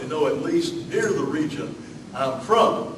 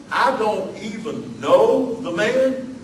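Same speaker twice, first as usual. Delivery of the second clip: desperate denial; 5 semitones higher, 3 dB louder, slower than usual. Acted. Peter's desperate denial acted out.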